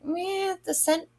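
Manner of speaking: high, dismissive "meh", then rushed; mock-bored verdict on a candle; unimpressed. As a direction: shrug it off as mediocre. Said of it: "I was like".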